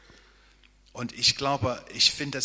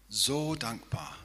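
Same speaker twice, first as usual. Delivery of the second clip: softer, slower echo of "so dankbar"; tender; 2 semitones higher, 5 dB quieter than usual. Real, not acted. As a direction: let "so dankbar" sink in gently.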